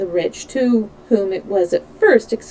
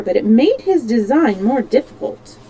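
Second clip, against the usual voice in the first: ordinary delivery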